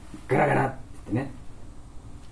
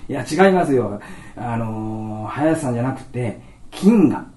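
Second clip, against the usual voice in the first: doctor correcting; 2 semitones higher, 7 dB louder than usual. Retold or imitated.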